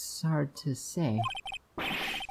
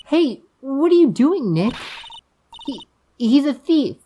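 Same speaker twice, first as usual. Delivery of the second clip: high, slow, louder objection; alarmed girl protesting; 12 semitones higher, 7 dB louder, slower than usual. Acted. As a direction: protest slowly in a high, loud voice.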